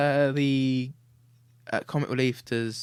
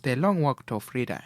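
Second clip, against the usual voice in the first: lightly voiced South African statesman; a hint of an African elder's accent; Nelson Mandela; 3 semitones lower than usual. Naming the book, light Mandela impression. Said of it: "Can you do a Nelson Mandela".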